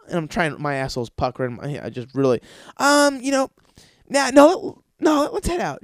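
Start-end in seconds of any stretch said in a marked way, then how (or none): 2.8-5.8 fake reluctance. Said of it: "his answer".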